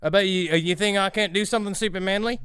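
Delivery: mock Yorkshire accent; hammed-up bad Yorkshire accent. Bragging to friends about his motorbike, in a mock Yorkshire accent. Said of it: "I'm becoming Australian".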